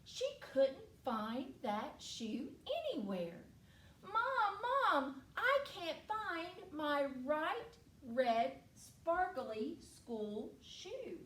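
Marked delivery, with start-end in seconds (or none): 4.0-11.2 lightly voiced child calling Mom, starting high; slow, deliberate complaint after a higher call; distressed little girl. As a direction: call out for Mom, then spell out the trouble. Girl calls Mom for lost shoe.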